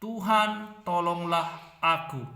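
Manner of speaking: woman's desperate prayer; pleading prayer. Acted. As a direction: cry out to God for help, drawn out. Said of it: "Dia sambil berkata".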